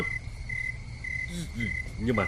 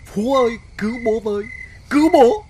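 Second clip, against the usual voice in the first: retold cry for help; 3 semitones higher than usual. Husband retelling his dream of drowning, mock screaming for his son. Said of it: "Tôi gào lên".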